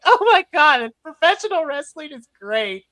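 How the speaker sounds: teary fan overwhelmed by the match; emotional gush. Retold or imitated. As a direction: choke up with joy. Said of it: "I'm like".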